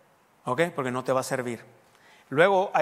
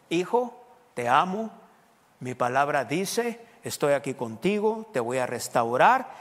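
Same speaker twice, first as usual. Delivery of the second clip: gentle, slower fatherly words; tender voice of God; slower than usual. Acted. God comforting a struggling believer, a touch of tenderness. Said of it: "te puede decir algo como esto".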